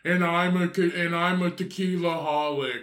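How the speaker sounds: put-on drunk woman voice. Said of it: "Sounds like, uh, what's her name off of".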